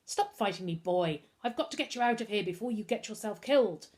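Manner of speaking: put-on a light French accent; urgent butler, lightly French accent. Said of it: "He recognised the French accent".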